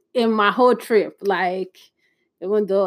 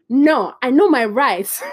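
slow, louder, defiant insistence; 4 semitones higher, 4 dB louder, slower than usual. Retold or imitated. Woman refusing police at a night stop, slow defiance. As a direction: dig in your heels, slowly. She defies police and friends.

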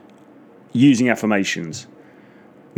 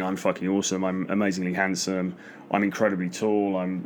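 under his breath; 7 dB quieter than usual. Retold or imitated. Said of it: "I'll do it under my breath".

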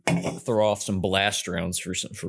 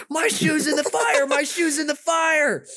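put-on high, slow childish wail; mock-cry like a heartbroken six-year-old; sing-song wail of a crying child; wailing kid; slower than usual. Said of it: "crying and screaming".

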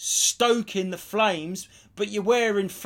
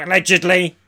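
smug comedian; 8 dB louder than usual. Retold or imitated. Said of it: "Ian Treslop would go".

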